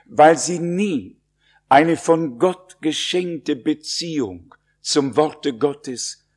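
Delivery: nie pushed up and held firm; solemn emphasis on nie, slowing toward Gottes hatten; stress on nie. Real, not acted. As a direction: lean hard on the word nie. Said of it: "ich sage es noch einmal mit Betonung".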